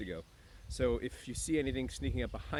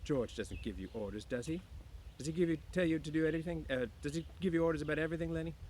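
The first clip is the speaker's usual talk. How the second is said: teasing woman; 7 semitones higher than usual. Acted. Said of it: "she laughed".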